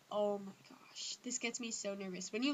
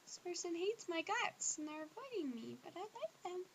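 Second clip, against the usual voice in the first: soft, higher mock-pining lament; mock mopey lament; 8 semitones higher, 6 dB quieter than usual. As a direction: sigh it out as a hammed-up sad crush. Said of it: "at first you're like".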